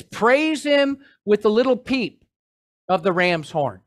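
misreading the psalm as a joke, mock-dainty; joking misreading. Shown as a demonstration. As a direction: play the horn down as a tiny toot. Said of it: "Did I miss, what does it say?".

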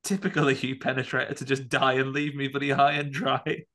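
mock furious grumble; Chekhov. Abandoned astronaut blaming his dead friend, mock furious. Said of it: "Chekhov is furious and he's like".

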